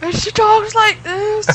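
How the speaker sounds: very high, slow mocking woman's voice; horrible voice impression. Friend imitating the TV fill-in host, horrible high voice. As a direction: mimic an awful, stuffed-up voice way up high. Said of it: "She's just got a horrible voice".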